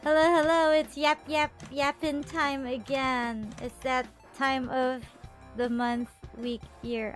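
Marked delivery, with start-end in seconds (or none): none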